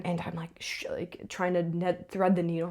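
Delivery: hushed, breathy whisper under pressure. Real, not acted. Stage manager fumbling a needle backstage, tense whisper. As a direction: keep it under your breath. Panicking while threading a needle.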